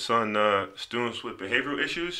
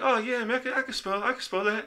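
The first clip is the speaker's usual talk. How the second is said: put-on much higher, overconfident kid voice; cocky younger self; 13 semitones higher than usual. Teen boasting to the doctor he can spell, high cocky voice. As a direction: play it breezy and sure of yourself. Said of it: "I was like".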